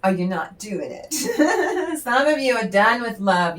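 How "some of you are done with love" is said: laughing. Real, not acted. Laughs at own remark.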